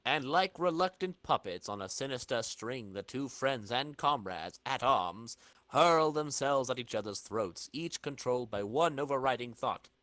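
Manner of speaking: comic narration. A narrator's reading. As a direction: read it like a comic announcer.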